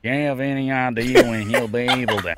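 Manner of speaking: attempted cowboy accent, breaking into laughter; McCree. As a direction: try a drawling gunslinger accent. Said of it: "best McCree accent".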